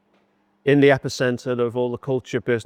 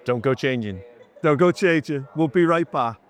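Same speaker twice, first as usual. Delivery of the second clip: 1940s announcer voice. Pretend. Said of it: "your nineteen forties voice was boss".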